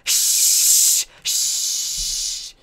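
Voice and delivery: loud hissing shush; librarian shushing whisper. Acted. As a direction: shush hard to silence them.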